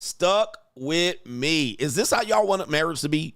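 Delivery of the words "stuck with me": very slow, drawn-out repetition; mocking echo. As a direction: stretch each word in mock disbelief. Repeats her line in disbelief.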